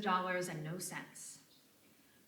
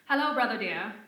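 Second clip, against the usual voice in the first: louder, lightly put-on posh accent; a sister's fake high-society hello; phony upper crust accent; 3 semitones higher, 10 dB louder than usual. Lucy as Lola greeting her brother in a mock posh accent. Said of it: "in a phony upper crust accent".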